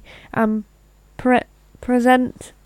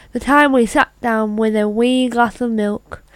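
put-on Irish accent. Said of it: "you can tell it's Irish".

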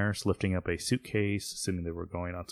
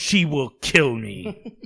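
drawn-out, slightly raised dread; mock fear; 4 semitones higher, 4 dB louder, slower than usual. Acted plea about fearsome wife.

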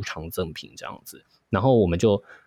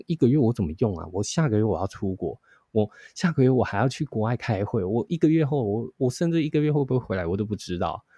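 a touch of an indignant customer, slightly higher; mild angry complaint; 4 semitones higher than usual. Retold or imitated. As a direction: retell her protest with mild outrage. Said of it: "他就很生气".

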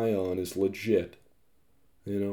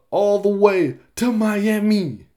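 drawn-out announcer read; 9 semitones higher, 7 dB louder, slower than usual. Real, not acted. Reading out Siri's answer.

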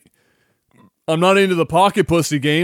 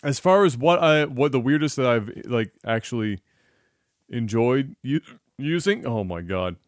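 talking through hiccups; words broken by hiccups; 3 semitones lower than usual. Real, not acted. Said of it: "I've got the hiccups".

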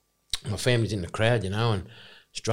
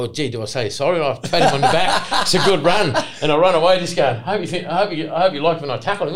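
put-on star-struck kid; 6 semitones higher, 6 dB louder than usual. Retells star-struck kid tackling his idol.

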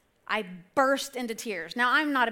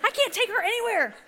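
higher, laughing mock son; lightly voiced embarrassed son; 10 semitones higher than usual. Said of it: "he would've been like".

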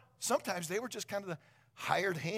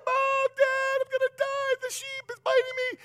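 put-on much higher, louder terrified child's cry; panicked kid; 9 dB louder than usual. Bitten boy cries out to mom and dad, panicked. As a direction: wail for your parents in panic. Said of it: "I'm crying".

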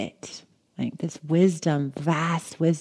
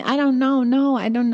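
distressed; 8 semitones higher, 4 dB louder than usual. Retold or imitated. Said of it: "I was like".

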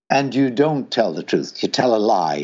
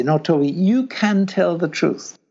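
No, Toby pushed higher, firmer and insistent; firm insistence; 6 semitones higher than usual. Shown as a demonstration. To Toby, who says it's too embarrassing: firm insistent urging. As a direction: press the point home over his excuse. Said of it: "I say".

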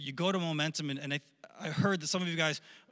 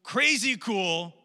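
a touch louder, wowed and elated; 3 semitones higher, 3 dB louder than usual. Acted. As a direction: act out being thrilled and awestruck. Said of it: "like, spiritual high".

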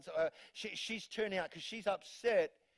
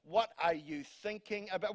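mock exasperated mum; 2 semitones lower than usual. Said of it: "you're just like".

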